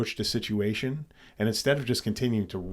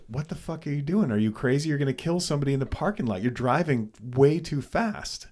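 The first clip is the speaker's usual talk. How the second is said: higher mock scolding, not shouted; retold angry yelling; 5 semitones higher than usual. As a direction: berate a careless driver, retold. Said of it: "I yelled, whatever".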